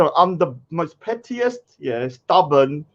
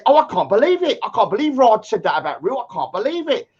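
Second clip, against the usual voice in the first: a lightly voiced gossiping granny, higher; mock old granny; 5 semitones higher than usual. Mocking a rival as a gossiping granny. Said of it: "You're like two little old grannies".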